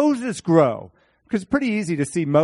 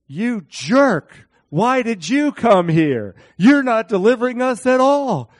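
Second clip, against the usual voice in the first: higher, louder accusing jeer; mock angry crowd; 7 semitones higher, 6 dB louder than usual. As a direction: hurl it at Moses like an angry mob. Israelites turning on Moses.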